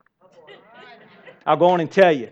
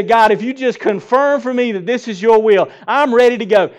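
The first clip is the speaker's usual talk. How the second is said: eager promise; 5 semitones higher, 6 dB louder than usual. Retold or imitated. Believer bargaining with God.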